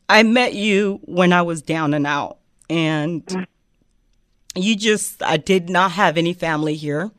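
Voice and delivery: choked-up grateful thanks; crying tears of joy. Real, not acted. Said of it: "don't cry with me now".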